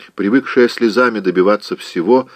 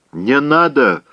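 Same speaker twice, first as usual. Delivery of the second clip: higher, sharp angry outcry; furious cry; 7 semitones higher, slower than usual. Acted. Scarlett stops aunt lowering the blinds, fierce cry. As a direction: stop them with a fierce shout. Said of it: "яростно вскричала вдруг Скарлетт".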